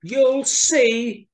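high, loud, drawn-out mouse retort; emphatic little mouse. A narrator's reading. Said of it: "she said".

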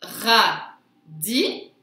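"Radis" split ra ... di, rising at the end; loud, separated syllables in "Radis", lifting on di. Shown as a demonstration. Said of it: "sur la deuxième syllabe".

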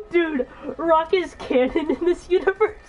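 slow, laughing incredulous question; laughing disbelief. Real, not acted.

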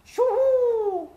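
very high, loud hooting owl cry. A narrator's reading. Owl hoots before toasting the little fox, loud high hoot.

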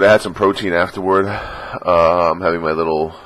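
ordinary talk

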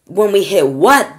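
loud, rising, drawn-out question; high, slow shout of alarm; alarmed cry. A narrator's reading. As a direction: cry out in disbelief. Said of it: "they cried".

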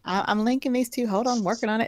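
talking while chewing gum; words around a wad of gum. Real, not acted. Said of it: "I'm trying to talk and chew gum".

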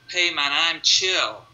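lightly voiced laid-back brain part; slow, drawn-out, easygoing mock reply; chilled-out amygdala. Calmed amygdala answering the stimulus, lightly voiced as chilled out. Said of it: "you've calmed the amygdala".

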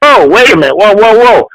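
mock alarmed whoa; retold alarm. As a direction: act out trying to halt everyone. Retold alarm at being grabbed.

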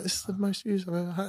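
high, gushing boast; excited brag. Retold or imitated. Bragging to housemates about his views, high and gushing.

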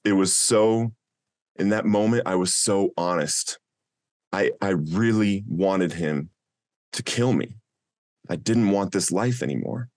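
fighting back tears as he speaks; choking up. Real, not acted. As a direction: voice catching with real emotion. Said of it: "I'm choking up a little bit".

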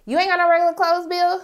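fast, teasing question. Retold or imitated. A viewer teasing Bill about his work outfit, fast and teasing. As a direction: poke fun at him. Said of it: "I was like".

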